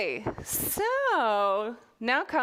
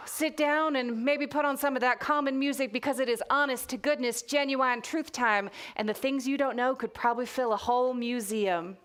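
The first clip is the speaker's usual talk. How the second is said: put-on reading in a light Texas accent; storyteller slipping into a mild Texas accent. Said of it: "I'm gonna put on a Texas accent now".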